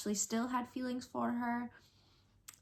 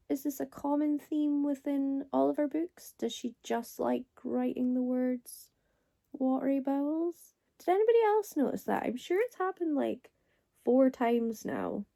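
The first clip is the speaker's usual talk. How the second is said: rising disbelief, louder and higher; incredulous; 4 semitones higher, 5 dB louder than usual. Real, not acted. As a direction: ask it in amused disbelief. Incredulous rant about watery bowels.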